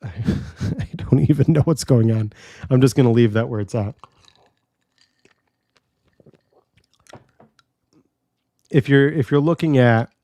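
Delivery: talking around an ice cube; ice in mouth. Real, not acted. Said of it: "I've got an ice cube in my mouth".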